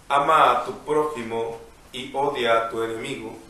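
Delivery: measured liturgical reading voice; gospel reading. Acted. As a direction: read the Gospel aloud, unhurried. Priest reads the Gospel.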